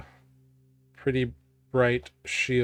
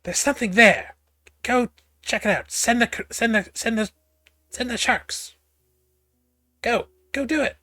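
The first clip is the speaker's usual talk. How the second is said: high raspy creature voice, urgent orders; 9 semitones higher, faster than usual. Acted. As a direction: rasp out orders like a lurking monster. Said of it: "kind of a raspy voice saying".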